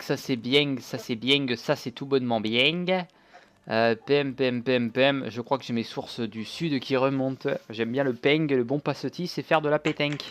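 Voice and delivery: put-on playful southern French accent; lightly put-on accent from the south of France. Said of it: "je prends un accent du sud".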